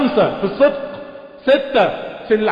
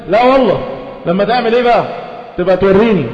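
mocking challenge. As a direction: taunt him to prove himself. Mocking the husband's defiance. (تحدٍّ ساخر بصوت أعلى)

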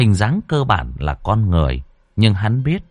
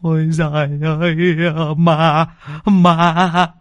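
higher, shaken stammer; stutter, too scared to finish; a touch of panicked stammering; 7 semitones higher, slower than usual. Acted. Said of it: "ông Bình bấy giờ mới lắp bắp".

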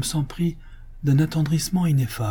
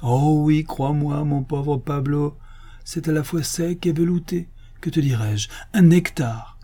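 high-pitched, emotional rapture; tearfully moved; 4 semitones higher than usual. Acted. Master confides his joy to his majordomo, tearfully moved. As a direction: gush with tender wonder, near weeping. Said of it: "s'écria d'une voix attendrie".

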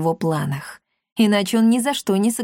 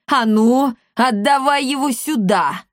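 louder, higher bossy demand; commanding exclamation; 4 semitones higher, 3 dB louder than usual. A narrator's reading. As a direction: order it handed over at once. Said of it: "воскликнула комендантша". (властно, требовательно)

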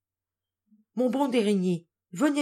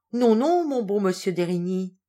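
laughing; 3 dB louder than usual. Acted. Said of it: "répondit Natacha en riant".

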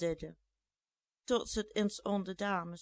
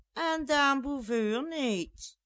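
higher, slow, pressing question; insistent plea; 6 semitones higher, 5 dB louder, slower than usual. A narrator's reading. Jeanette presses the departing ladies, slow insistent plea. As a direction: push the ladies for an answer, slow and high.

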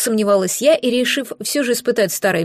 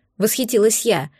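usual speaking voice

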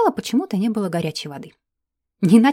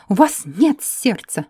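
categorical declaration; 4 dB louder, slower than usual. Acted. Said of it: "безапелляционно заявила эльфийка".

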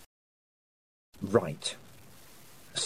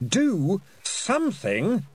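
hoarse shout; 10 semitones higher, slower than usual. Acted. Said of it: "hoarse with effort, shouted".

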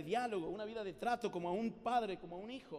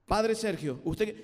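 stiff recited speech, very slow and louder; reading it out; 6 dB louder, slower than usual. Shown as a demonstration. Speaker reading a memorized speech to Padre Sergio, stiff and slow. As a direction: read it off the paper like a formal address. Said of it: "el único discurso que sé de memoria".

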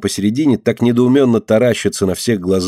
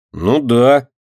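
ordinary delivery, nothing marked

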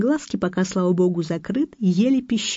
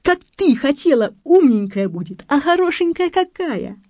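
higher, louder, syrupy sweet talk; sugary voice; 9 semitones higher, 4 dB louder than usual. Retold or imitated. Husband Vanya sweet-talks his wife about the baby, sugary. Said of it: "А Ваня ей сладким голосом".

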